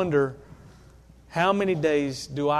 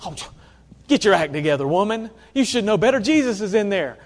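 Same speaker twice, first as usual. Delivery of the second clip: half-mocking scold, a little louder, pitch climbing toward the end; tut-tut at Martha like a nagging critic, not quite in earnest; 2 semitones higher, 4 dB louder than usual. Critics nagging Martha to join Jesus, mock scolding. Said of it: "blast Martha a little bit and be like".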